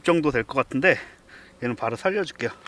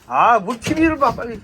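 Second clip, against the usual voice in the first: loud, higher protest; exasperated shout; 9 semitones higher, 10 dB louder than usual. Real, not acted. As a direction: yell it in disbelief. Arguing with friend to come.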